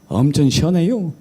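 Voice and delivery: Chungcheong accent, rounded ending; Chungcheong dialect. Shown as a demonstration. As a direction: put on Chungcheong regional speech. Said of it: "충청도".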